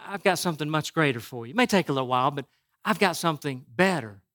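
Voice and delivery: God answering softly. Retold or imitated. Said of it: "And God says".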